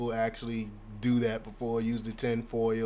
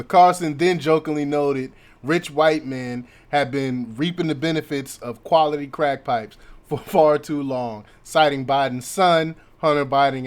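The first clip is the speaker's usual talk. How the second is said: punchy, louder article read, breaking into a chuckle; amused news read; 7 dB louder than usual. Acted. Commentator reads Carlson's jibe to viewers, amused news read. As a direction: read the report out, tickled by it.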